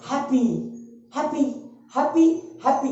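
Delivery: "हैप्पी" in one go, no break inside; "हैप्पी" repeated, each one unbroken; one unbroken unit. Shown as a demonstration. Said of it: "एक बार में बिना रुके हुए बोल रहे हैं".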